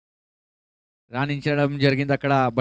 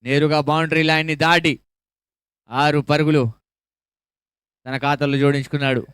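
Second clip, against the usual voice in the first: usual speaking voice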